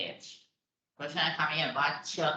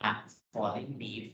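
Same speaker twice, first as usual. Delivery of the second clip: a falling leaf, repeated slowly and a little softer; 3 semitones lower, 4 dB quieter, much slower than usual. Shown as a demonstration. Teacher repeating the phrase for students, slow. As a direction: echo the phrase slowly for the class. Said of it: "ใบไม้ที่ร่วง".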